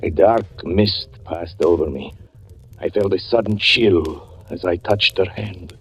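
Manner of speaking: usual speaking voice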